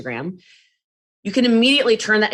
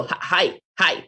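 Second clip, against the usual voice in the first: mock nervous stammer, high and loud; nervous beginner; 8 semitones higher, 6 dB louder than usual. Imitating her nervous first live video, high and loud. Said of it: "That was me on live video".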